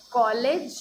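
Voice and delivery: कॉलेज with a rounded open aw vowel; open o demo. Shown as a demonstration. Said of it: "इसका pronunciation अ होता है".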